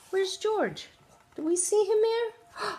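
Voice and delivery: playful asking. Real, not acted.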